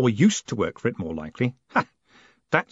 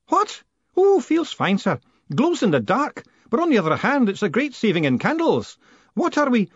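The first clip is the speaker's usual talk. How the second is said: put-on high, quavering old man's voice; a bit deaf and startled, then chatty; old George fussing over his glowing leg; fussy old postman; 11 semitones higher, 3 dB louder than usual.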